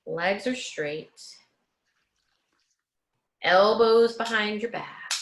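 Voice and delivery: slow and deliberate, stress on "are"; slow emphatic correction. Shown as a demonstration. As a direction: correct her slowly, leaning on "are". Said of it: "Yep, like Maria".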